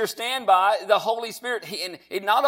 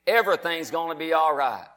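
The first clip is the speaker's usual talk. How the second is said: like you mean it; 3 semitones lower than usual. Shown as a demonstration. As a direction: say it with conviction, taking more time. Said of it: "now say it like you mean it".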